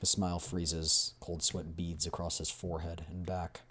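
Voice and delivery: measured, dramatic game narrator; story narration. A narrator's reading. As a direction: read the scene as a storyteller.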